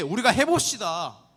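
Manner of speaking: spirited, bold, resolute, loud and slow. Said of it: "호기롭게".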